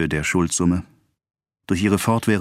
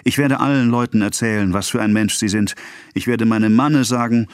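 indignant threat; 5 semitones higher, 3 dB louder than usual. Acted. Acted quarrel, woman threatens the dealer.

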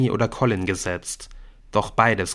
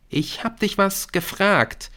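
put-on high, slow girl's voice, punching "gefragt"; stress on GEFRAGT; 11 semitones higher, slower than usual. A narrator's reading. Brynn reproaches Nick, pointed stress on "gefragt". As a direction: lean hard on the last word, "gefragt". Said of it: "mit Betonung auf dem letzten Wort".

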